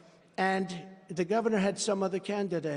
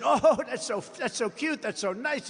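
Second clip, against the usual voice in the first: mocking gushing; 5 semitones higher than usual. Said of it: "the fake news said".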